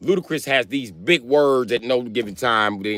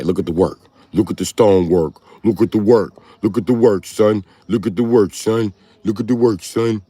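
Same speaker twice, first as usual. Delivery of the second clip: repeated hype chant, getting louder; New York street voice; 4 dB louder than usual. Retold or imitated. Imitating New York guys admiring the work, mock hype. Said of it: "As they, the New York niggas say".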